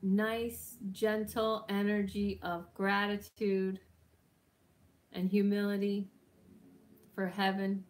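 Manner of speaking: soft, unhurried invocation voice; calm prayerful healer's voice; guided healing meditation. Acted. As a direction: gently guide them up toward heaven.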